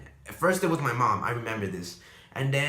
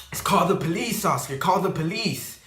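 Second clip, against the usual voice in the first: high, loud urgent yell for help; retold scream; 4 semitones higher, 4 dB louder than usual. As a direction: yell at your brother to call the police. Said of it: "screaming at me".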